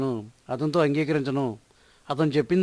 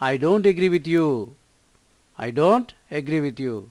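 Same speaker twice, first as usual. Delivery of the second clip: slow, word by word, clearly spaced; slow model sentence; much slower than usual. Shown as a demonstration. Teacher to Telugu learners, modelling the English sentence slowly. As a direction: read it slowly for learners to copy. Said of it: "teacher models the sentence slowly".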